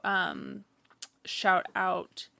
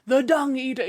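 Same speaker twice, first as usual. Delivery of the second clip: higher, louder mock narrator; Elden Ring narrator; 4 semitones higher, 5 dB louder than usual. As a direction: announce the name like a game-intro narrator. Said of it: "like, naming off".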